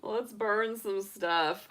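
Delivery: slow, drawn-out, relishing each word; playful excited. Acted. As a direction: savour it like you can't wait to light the fire. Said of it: "gets very excited to do".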